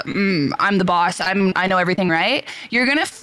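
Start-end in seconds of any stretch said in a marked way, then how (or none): 0.0-2.1 macho guy impression. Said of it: "he's very masculine and he's like".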